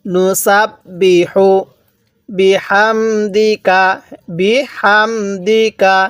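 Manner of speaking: slow drawn-out Quranic chanting; tajweed recitation. Shown as a demonstration. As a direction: recite slowly for students to echo. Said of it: "কিভাবে পড়ব".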